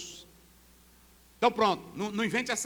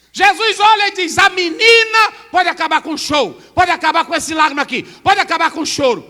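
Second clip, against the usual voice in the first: higher and louder proclamation; preaching shout; 7 semitones higher, 13 dB louder than usual. Acted. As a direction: declare it boldly. Preaching at full force.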